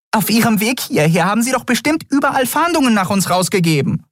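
high, hysterical little fairy voice; tiny fairy voice. A narrator's reading. Tiny Nelen pressing Keru for answers, high and frantic. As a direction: flutter the questions out, high and frantic.

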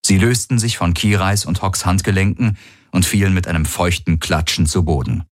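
ordinary delivery, nothing marked

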